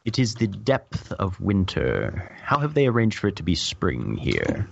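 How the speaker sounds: mildly confused. Acted. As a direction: wonder aloud, a bit baffled. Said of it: "in a mildly confused voice".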